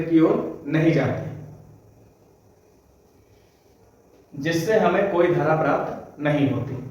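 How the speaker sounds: measured phrase-by-phrase dictation for note-taking; teacher dictating notes, halting after each phrase; slow dictation. Real, not acted. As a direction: dictate slowly, long pauses between phrases. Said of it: "मैं धीरे धीरे बोल रहा हूँ".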